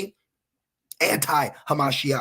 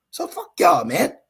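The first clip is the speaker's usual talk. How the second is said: angry outburst; 3 dB louder than usual. Real, not acted. Preacher's outburst at listeners.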